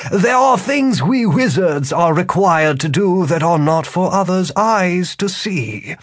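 smooth false courtesy, unhurried; wizard voice. Acted. Wizard speaks.

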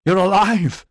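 a stunned bellow of joy. A narrator's reading. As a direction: bellow it out in disbelief. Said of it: "Edyard bellowed".

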